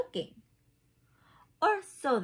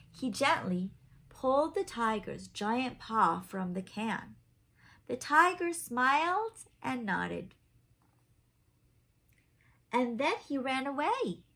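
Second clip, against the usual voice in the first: lively picture-book narration; reading to children; 3 dB louder than usual. A narrator's reading. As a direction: read it like a bedtime story for little ones. Reads picture book aloud.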